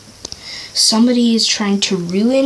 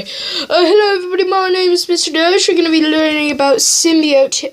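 teacher voice; 4 semitones higher than usual. Acted. Teacher character voice, laugh.

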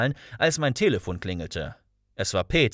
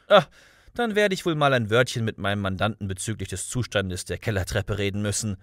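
usual speaking voice

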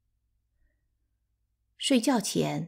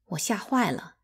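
ordinary delivery

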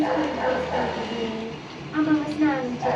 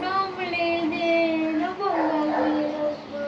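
slow, drawn-out mock whimper; mock crying; slower than usual. Mother slowly mimicking her crying daughter, mock whimper. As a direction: tease her by playing the crybaby.

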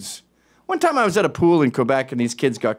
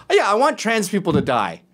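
higher-pitched mock confession; sarcastic agreement; 5 semitones higher than usual. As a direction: echo the accusation in disbelief. Sarcastically echoes the accusation.

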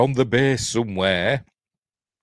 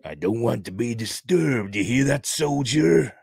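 officer's rebuke; 3 semitones higher than usual. Acted. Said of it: "he's saying".

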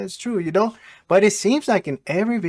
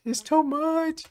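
much higher, exasperated cry of "too much"; exasperated outburst; 10 semitones higher, 3 dB quieter, much slower than usual. Real, not acted. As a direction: throw "too" up high in disbelief. Reactor repeats in disbelief.

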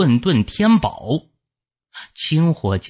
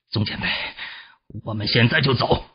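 understated cold reply, starting soft; cool confidence; 4 dB quieter, faster than usual. Acted. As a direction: calmly announce the escape after a cold chuckle. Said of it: "冷冷一笑道".

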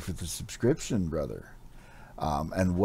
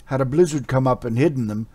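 urgent warrior; 5 semitones higher, 9 dB louder than usual. Acted. Warrior scolds Amra urgently.

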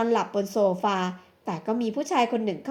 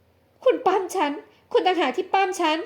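indignant accusation; 6 semitones higher, slower than usual. Acted. Woman denies, accuses man.

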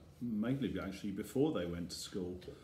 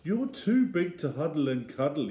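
put-on little boy Eddie; 5 semitones higher, 7 dB louder than usual. A narrator's reading. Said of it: "he said".

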